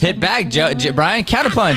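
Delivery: pumped-up high call; hype shout. Real, not acted. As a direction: yell it as a cue. Urging Brian to hit back.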